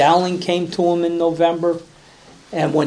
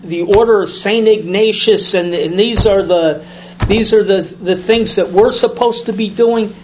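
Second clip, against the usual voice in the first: higher, louder, amazed outpouring; astonished priest; 4 semitones higher, 3 dB louder than usual. Retold or imitated. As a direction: gush it out as if stunned by a discovery. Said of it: "And he goes".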